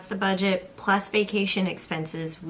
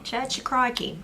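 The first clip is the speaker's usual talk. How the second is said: higher mock Aussie repeat; Australian accent; 7 semitones higher than usual. Wife repeating the joke in an Australian accent. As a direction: savour the punchline in an accent. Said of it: "where did Steve Irwin go to church".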